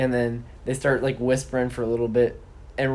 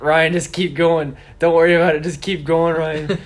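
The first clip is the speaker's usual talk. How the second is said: urging; 4 semitones higher, 5 dB louder than usual. Retold or imitated. Aaron telling Ryan to move on.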